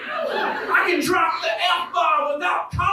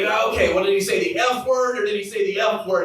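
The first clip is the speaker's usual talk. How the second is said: lower, quick mock-serious question; 6 semitones lower, faster than usual. Dad quizzing the teacher, lower and deadpan. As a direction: ask deadpan as if it's a fair distinction. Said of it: "I'm like".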